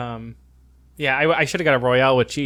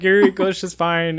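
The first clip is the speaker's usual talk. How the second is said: tag; 5 semitones higher, 4 dB louder than usual. Retold or imitated. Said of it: "I was so embarrassed".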